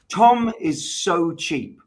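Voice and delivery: slow, loud comedic roast setup; roast comic. Pretend. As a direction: draw out the punchline like a roast host. Roast bit, playing to crowd.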